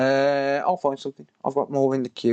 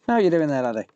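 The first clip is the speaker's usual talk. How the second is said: put-on northern accent; 3 semitones higher, faster than usual. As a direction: ask the laddie in a jokey northern accent. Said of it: "I don't know what accent he's supposed to be".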